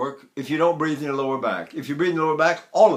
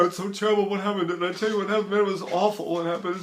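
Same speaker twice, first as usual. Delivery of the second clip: mock crying; 2 semitones higher, 4 dB quieter, faster than usual. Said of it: "anything makes me cry".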